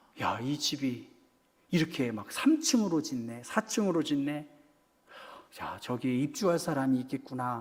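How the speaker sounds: low, quiet musing murmured under the breath.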